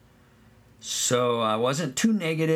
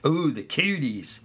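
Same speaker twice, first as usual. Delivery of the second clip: a mock-scared ooh, the cooties; hammed-up shudder at cooties; mock horror; 3 semitones higher than usual. Shown as a demonstration. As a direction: tease the kids with fake dread. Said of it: "stay away".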